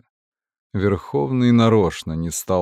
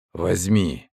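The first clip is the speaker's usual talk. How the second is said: whispery telepathic voice; 3 semitones lower than usual. Acted. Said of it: "Голос раздался в голове".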